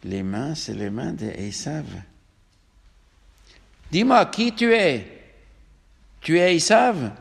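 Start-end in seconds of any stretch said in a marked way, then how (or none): 3.9-7.1 suspicious demand. Acted. Blind father questions his son.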